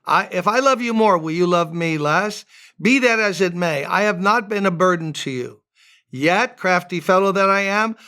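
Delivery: lightly ironic, knowing reading of Paul's words; sarcastic reading. Shown as a demonstration. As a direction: read it with a touch of sarcasm, stressing not and fellow. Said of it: "you gotta get the sarcasm, the irony".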